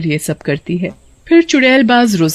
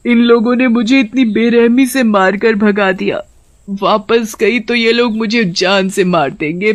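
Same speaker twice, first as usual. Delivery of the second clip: a hint of weeping, voice pitched up in despair; crying lament; 3 semitones higher than usual. Wounded witch-hawk alone in the jungle, lightly weeping for her children. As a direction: lament alone in the forest, half-sobbing. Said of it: "तेज तेज रोने लगती है".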